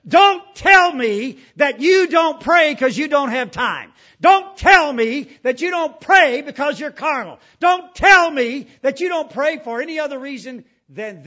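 full-force pulpit preaching; fiery preaching. Acted. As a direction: hammer each line at the congregation.

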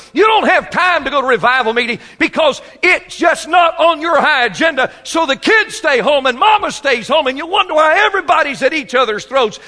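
high, loud hammering sermon shout; fiery preaching. Acted. Preacher shouting at busy men in the pews. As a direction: preach it full force at the congregation.

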